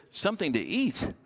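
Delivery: high, disbelieving question; can't believe he asked that; incredulous echo. Retold or imitated. Widow echoing Elijah's request in disbelief.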